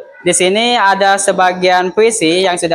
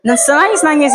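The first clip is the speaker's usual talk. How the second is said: higher, whimpering mock sob on "nangis"; mock crying; 7 semitones higher than usual. Shown as a demonstration. Teacher showing students a crying delivery, mock sobbing. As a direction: act out crying for the class. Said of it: "di waktu kalian lagi nangis".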